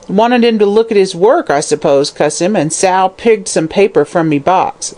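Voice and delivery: high, indignant crone; a mild shriek of outrage. Acted. Hag complaining of her granddaughter, indignant. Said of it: "she shrieked indignantly".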